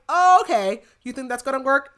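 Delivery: villain sneers at Bryce's protective bubble, high and mocking. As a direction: scoff at her magic bubble. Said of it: "So he's like".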